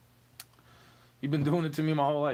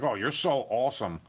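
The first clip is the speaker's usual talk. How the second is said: sarcastic; 2 semitones lower than usual. Shown as a demonstration. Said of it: "I tell you when I'm being sarcastic".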